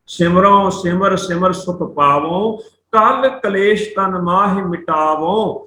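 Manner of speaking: slow, measured verse reading; scripture recitation. Shown as a demonstration. Teacher reciting Gurbani to students, slow recitation. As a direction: draw out each word of the verse.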